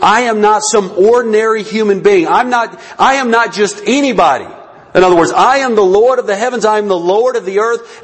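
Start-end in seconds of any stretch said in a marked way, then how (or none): 0.0-4.5 firm emphasis on the "I"; "I" stressed, declaring authority. Acted. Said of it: "The emphasis is on the I". 5.3-8.0 "I" stressed in a firm declaration; emphatic "I", proclaiming lordship. Acted. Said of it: "The emphasis is on the I".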